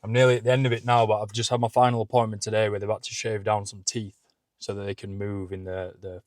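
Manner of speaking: lisping with Invisalign. Real, not acted. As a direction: lisp through clear aligners. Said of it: "Excuse the lisping".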